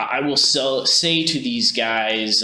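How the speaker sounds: ordinary talk, nothing marked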